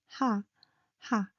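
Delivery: low, gentle "ha"; easy, low "ha"; low and soft. Shown as a demonstration. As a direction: breathe out "ha" softly and low. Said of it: "low and soft".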